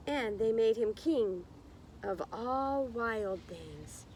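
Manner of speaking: put-on slow, lilting read-aloud for children; story narration. A narrator's reading. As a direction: read it like storytime, drawing out the words. Reading picture book to class.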